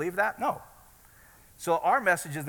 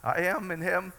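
less bold; slower than usual. Shown as a demonstration. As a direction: say "I am in him" like you barely believe it. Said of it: "some days I feel more bold in that than others".

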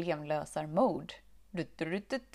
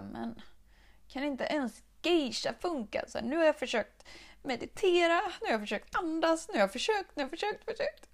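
rising higher and louder in exasperation; irritated; 9 semitones higher, 4 dB louder than usual. Retold or imitated. Vlogger retelling her cake frustration, exasperated and climbing high. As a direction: climb in pitch, fed up with every failed try.

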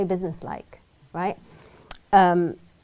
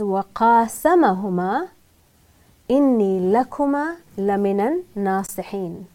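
Quranic recitation; much faster than usual. Acted. Quoting the Quran in Arabic.

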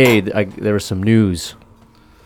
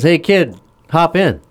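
higher, louder luring call; hammed-up creep calling out to a kid; mock friendly stranger offering candy; creepy van guy; 8 semitones higher, 3 dB louder than usual. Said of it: "this van pulls up and says".

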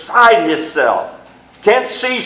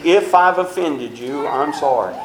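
insincere apology; 3 semitones lower than usual. Retold or imitated. Preacher mocking a fake apology to the congregation, dismissive. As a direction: toss off a hollow apology. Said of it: "remorse is not saying".

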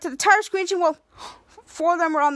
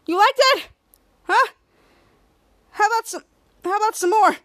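taunting; 5 semitones higher, 4 dB louder than usual. Retold or imitated. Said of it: "was like".

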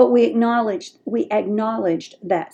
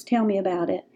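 soft magic words; 5 dB quieter than usual. Shown as a demonstration. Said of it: "those magic words".

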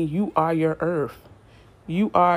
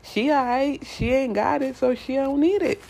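higher, sassy and dismissive; mock universe voice; 6 semitones higher than usual. Voicing the universe brushing off a bored person, sassy. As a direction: play the universe shrugging you off. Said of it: "the universe gonna be like".

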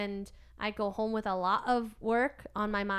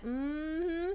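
put-on Georgia accent; 6 semitones higher, 5 dB quieter than usual. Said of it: "that habit now because of Georgia".

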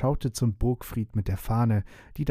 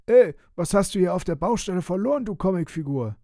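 higher, louder rough builder shouting; rough worker voice; 8 semitones higher, 4 dB louder than usual. Acted. Construction worker yells at the vampire on site, rough and loud. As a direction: bark at the intruder like a gruff site worker. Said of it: "Eine raue Stimme".

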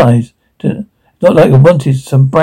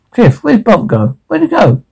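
frantic searching; 6 semitones higher than usual. Acted.

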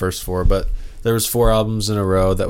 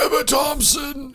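high, slow, puzzled repeat; surprised; slower than usual. Real, not acted. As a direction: say it back in disbelief. Repeating name in disbelief.

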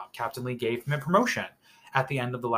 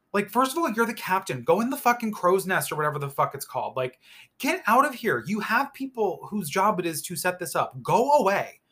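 exasperated rant; 5 semitones higher than usual. Pretend. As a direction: tell him off, fed up. Ranting at the captain.

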